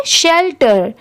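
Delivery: शेल्टर as शेल plus टर, joined; teacher's careful शेल्टर in two parts; pronunciation model. Shown as a demonstration. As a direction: join "shel" and "ter" clearly in शेल्टर. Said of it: "दोनों को मिला देंगे".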